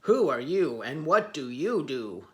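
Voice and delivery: loud, rumbling lion roar. Acted. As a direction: roar the question. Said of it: "the lions roared".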